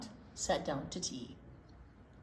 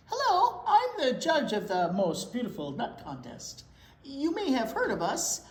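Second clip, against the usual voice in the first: disguised judge; 3 semitones higher, 5 dB louder than usual. Acted. Mouse disguised as contest judge.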